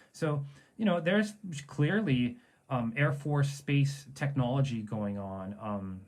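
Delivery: muffled, warbling bad-connection audio; underwater voice. Real, not acted. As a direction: sounds like talking underwater. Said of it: "my voice sounds like I'm underwater".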